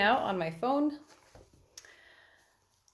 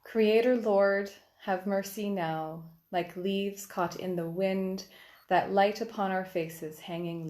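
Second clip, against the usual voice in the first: poetry reading. Acted. Poet reads her triolet for the Kyrie Eleison, measured prayerful recital.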